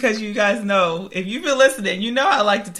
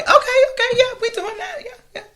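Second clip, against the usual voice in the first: mock French attitude; 14 semitones higher, faster than usual. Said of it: "all of it was like".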